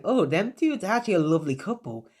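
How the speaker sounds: high, quick, gushing delight; gushing sensei. Acted. Sensei gushing to the group about Naruto and Yamato, high and fast.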